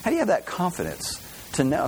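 doubting questioner. Retold or imitated. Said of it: "People ask me that".

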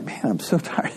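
weary mock whisper. God weary of complaining people.

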